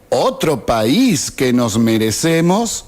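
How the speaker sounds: "país" lifted, "merecemos" rising at the end; questioning echo. Acted. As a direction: challenge it with a question, swinging up on "país". Repite la frase cuestionándola. (pregunta en eco, con énfasis en "país")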